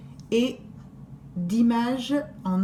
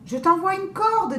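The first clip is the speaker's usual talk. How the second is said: put-on girl's sweet offer; 8 semitones higher than usual. Girl speaks to the wolf.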